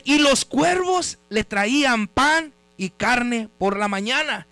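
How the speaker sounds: slow, phrase-by-phrase Bible reading; scripture reading. Real, not acted. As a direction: read the verse slowly with deliberate pauses. Reads scripture aloud. (lectura bíblica pausada)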